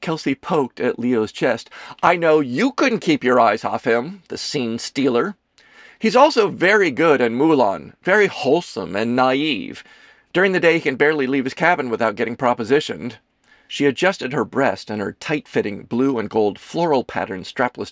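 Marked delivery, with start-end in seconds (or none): 2.0-13.2 lifted, lively teasing voice; theatrical actress character, teasing. Acted. Kelsey teasing Leo about the scene stealer, animated. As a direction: play a gossipy stage actress, lightly.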